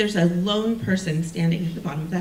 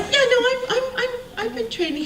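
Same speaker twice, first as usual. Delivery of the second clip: flustered laughing; faster than usual. Retold or imitated. Flustered reply to a condescending guy.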